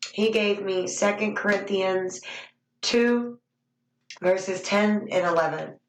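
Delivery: talking around chewing gum; chewing gum while speaking. Real, not acted. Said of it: "I got gum in my mouth".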